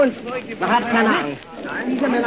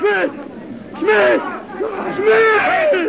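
frantic screaming; 11 semitones higher, much slower than usual. Acted. Screaming during the execution.

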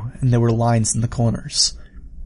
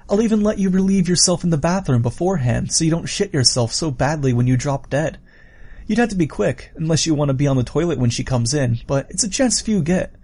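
higher, animated killer voice; villain offering a deal; 4 semitones higher than usual. Acted. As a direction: coax them into your grim bargain.

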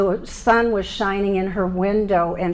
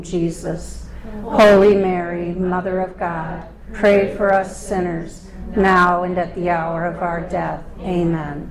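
spoken prayer. Acted. Leads the Hail Mary.

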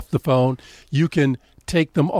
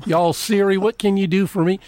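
southern accent; 5 semitones higher than usual. Shown as a demonstration. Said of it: "southern drawl".

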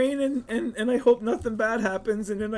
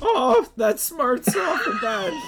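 pained cry; 10 semitones higher, slower than usual. Acted. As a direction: cry out as the knife goes in. Nathaniel stabbed in the ribs.

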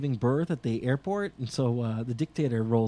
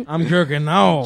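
slow, louder mock rapper voice; imitating a rapper; 3 semitones higher, 11 dB louder than usual. Mocking a rapper's lyric to a friend, slow mock rap. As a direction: drag out the lyric like a bad rapper. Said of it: "like he said".

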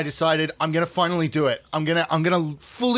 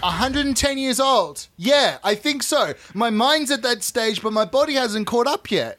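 put-on ten-year-old boy voice; 3 semitones higher than usual.

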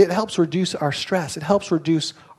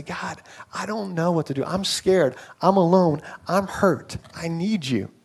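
much softer, hushed plea to God; soft pleading prayer; 6 dB quieter than usual. Retold or imitated. Pastor voices a frightened believer praying, hushed and pleading. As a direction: let it drop to a vulnerable murmur.

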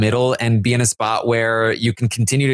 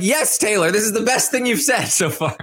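much higher, cheering her on; mock cheering; 9 semitones higher than usual. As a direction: applaud her like a proud fan. His own retold cheering reply.

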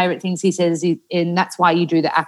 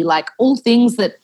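usual speaking voice

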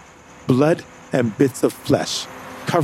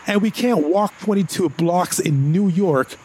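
reluctant agreement; 6 semitones higher than usual. Acted. Conceding but objecting.

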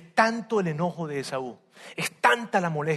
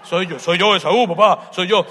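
insistent; 6 dB louder than usual. Acted. Jacob insisting loudly.

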